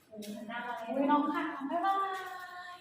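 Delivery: cooing. Real, not acted. Cooing at a zoo animal.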